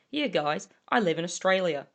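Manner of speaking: lightly attempted Australian accent; put-on Australian accent. Trying to pass as a local to the guys, put-on Australian accent. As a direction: have a casual go at sounding Australian. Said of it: "when I'm trying to be there like".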